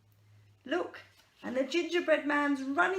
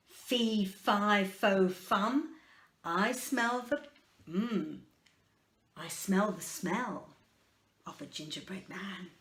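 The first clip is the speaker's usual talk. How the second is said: slow, lower, hint of a giant; lightly voiced giant; 3 semitones lower, slower than usual. Giant sniffing out the gingerbread man, lightly voiced and slow. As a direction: rumble it slowly, a mild giant. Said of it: "what does the giant say".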